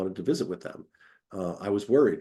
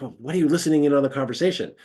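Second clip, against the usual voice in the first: mildly annoyed; 3 semitones higher, 4 dB louder, much faster than usual. Retold or imitated. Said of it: "they get a little annoyed".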